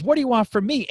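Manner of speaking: put-on high, loud Italian-accented father. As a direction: protest loudly in a light Italian accent. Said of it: "kinda Italian accent".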